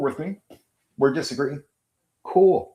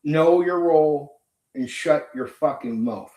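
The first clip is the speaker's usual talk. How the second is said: The Rock catchphrase; slower than usual. Retold or imitated. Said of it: "as The Rock would say".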